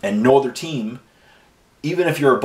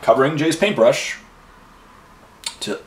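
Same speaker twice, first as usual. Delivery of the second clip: mock ad read; 5 semitones higher than usual. Mock sponsor read about lost cover.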